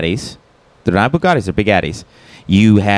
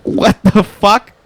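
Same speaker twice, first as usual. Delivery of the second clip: high, laughing yelp; cracking up in disbelief; 12 semitones higher, slower than usual. Real, not acted. Friend reacting to a failed Tate voice, laughing high.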